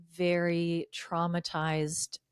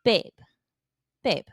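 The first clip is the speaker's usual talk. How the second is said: mocking husband voice; 2 semitones higher than usual.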